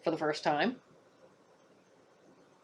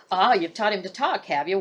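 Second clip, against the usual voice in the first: smiling; 4 dB louder than usual. Acted. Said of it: "Warder Marsh smiled".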